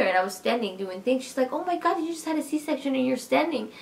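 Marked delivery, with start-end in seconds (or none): 1.5-3.7 high-pitched retold amazement; astonished doctor. Doctor sees C-section mother standing, astonished. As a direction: imitate a doctor who can't believe it.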